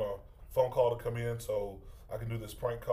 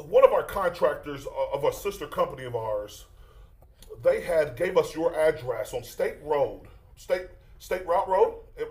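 pushy roofer on the phone; prank caller voice; 3 semitones higher, 5 dB louder than usual. Acted. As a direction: fake contractor pressing for payment.

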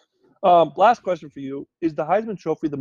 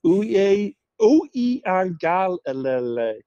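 Uiagalelei run together in one go; faster pronunciation demo; 4 semitones higher, much slower than usual. Shown as a demonstration. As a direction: say Uiagalelei faster, syllables linked after a false start. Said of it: "Say it fast".

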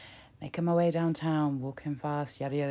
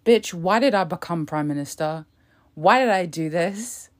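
mock Truss inner voice; 5 dB louder than usual. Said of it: "thinking in her head".

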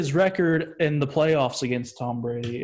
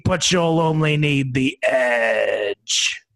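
booming monster truck rally announcer; louder, hyped announcer voice; 4 dB louder than usual. Acted. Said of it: "I've been working on my monster truck rally voice".

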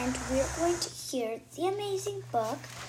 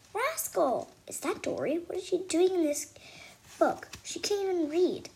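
sneering, higher than usual; mean teacher voice; 6 semitones higher than usual. Acted. Mean teacher mocking the girl, higher. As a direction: scoff at the girl who can't read.

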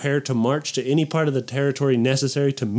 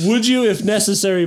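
choppy dramatic pauses, raised pitch; William Shatner style; 6 semitones higher, 3 dB louder than usual. Pretend. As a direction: break it up like Shatner. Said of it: "Break it up like William Shatner".

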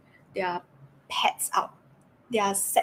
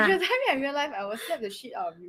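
laughing; 3 semitones higher, faster than usual. Acted. Joking threat while laughing.

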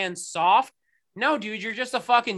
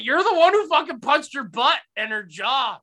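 raised voice, spitting the words; heated disgust; furious disbelief; angry rant; 4 semitones higher, 4 dB louder than usual. Real, not acted. Angry rant about the boyfriend.

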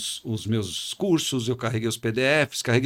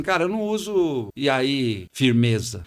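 a rapper's slang; slower than usual. Retold or imitated. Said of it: "isso é um rapper".

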